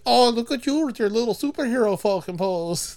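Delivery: a lightly put-on, mocking Russian accent; a half-hearted Russian accent, mostly own voice; bad Russian accent. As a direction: tease her like her Russian sister would, in a clumsy Russian accent. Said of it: "That's a horrible accent".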